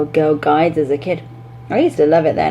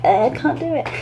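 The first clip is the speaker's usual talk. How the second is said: put-on child's complaint; 8 semitones higher than usual. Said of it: "they'll be like".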